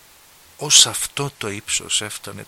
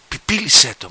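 a sudden loud urgent «Πιπίλισέ το»; mother rousing her drowsy daughter, loud and urgent; 2 semitones higher, 12 dB louder than usual. Retold or imitated. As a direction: wake the child up with it. Mother urges sleepy child.

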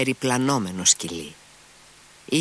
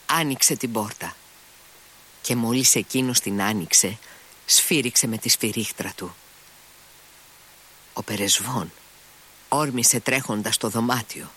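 plain reading voice

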